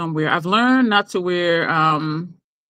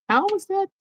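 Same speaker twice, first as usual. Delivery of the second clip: high-pitched how is that; high incredulous; 13 semitones higher than usual. Retold or imitated. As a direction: ask it in high disbelief. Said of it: "I'm just like".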